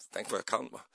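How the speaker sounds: mock-proud whisper; a playful whisper bragging to the congregation; whispered boast. Real, not acted. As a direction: whisper it like a cheeky brag. Boasting aside to audience.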